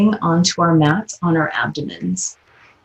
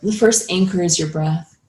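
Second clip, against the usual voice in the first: calm yoga teacher guiding breath, long pauses; measured meditation guidance with space between phrases; guided meditation. Acted. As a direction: lead them gently into mindfulness, unhurried.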